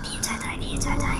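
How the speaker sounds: high, urgent whisper; breathless whisper, run run run; panicked whisper. Real, not acted. Panicked while being chased.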